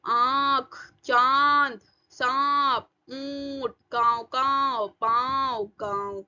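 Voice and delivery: चांद, सांप, ऊंट each held as a nasal vowel; nasalised vowels. Shown as a demonstration. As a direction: send the air of आँख, गाँव out through mouth and nose. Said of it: "हवा मुंह और नाक से".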